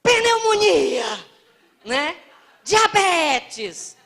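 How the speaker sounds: high, slow, drawn-out mock complaint; imitating gossipy people. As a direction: ham up the sick-talk of neighbours. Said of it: "pessoas falando assim".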